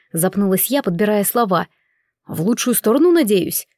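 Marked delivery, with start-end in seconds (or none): none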